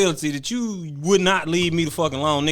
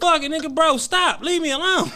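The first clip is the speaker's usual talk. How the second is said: snapped; 12 semitones higher than usual. Retold or imitated. Retelling the moment he snapped at his friend, yelling. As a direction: let it burst out, fed up. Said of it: "And then I snapped".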